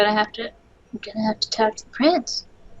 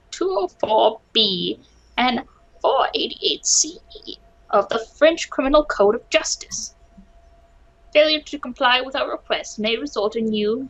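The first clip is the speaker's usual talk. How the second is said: stern lawyer voice. Acted. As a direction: brush the guard off like a busy lawyer. Player voices lawyer Falcon.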